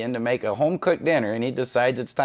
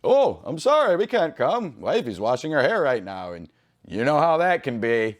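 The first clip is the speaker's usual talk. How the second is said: sing-song mocking sorry, lightly sarcastic; mock excuse.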